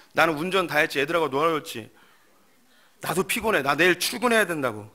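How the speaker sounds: husband defending himself in a marital quarrel; angry husband. Acted. Husband shouting back at his wife, angry.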